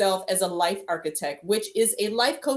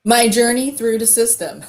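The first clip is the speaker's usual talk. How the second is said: laughing; 4 semitones higher, 8 dB louder than usual. Real, not acted. Guest laughs starting her story.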